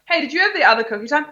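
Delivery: innocent, offhand query; casual alternative. Shown as a demonstration. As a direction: toss it off lightly and fast. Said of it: "you go".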